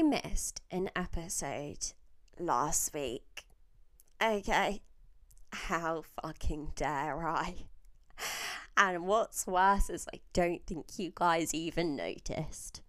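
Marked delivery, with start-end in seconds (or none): none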